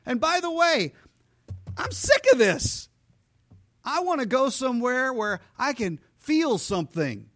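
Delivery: high, strained grumbling voice; a high, hammed-up whine about feeling nothing; whiny complainer. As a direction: whine it like a fed-up believer. Preacher voicing a complaining believer.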